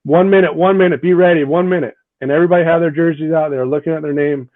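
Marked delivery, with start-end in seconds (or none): 0.0-1.9 raised coach call to players; calling out to team. Retold or imitated. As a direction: call the countdown to the locker room.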